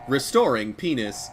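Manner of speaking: flat robot announcer voice. Retold or imitated. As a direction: say it like a machine reading out. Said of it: "a robot voice".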